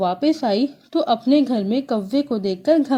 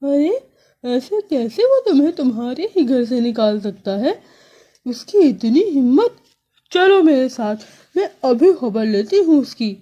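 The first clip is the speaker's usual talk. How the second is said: angry bulbul; 3 dB louder than usual. Acted. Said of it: "بلبل کو یہ سن کر بہت غصہ آیا".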